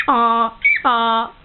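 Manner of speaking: donkey bray. Pretend. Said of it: "the donkey".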